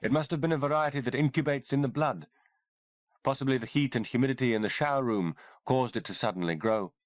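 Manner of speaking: cool clinical explanation, lightly voiced; lightly voiced doctor. Doctor Kimberly explains the fungus to soldiers, lightly voiced woman.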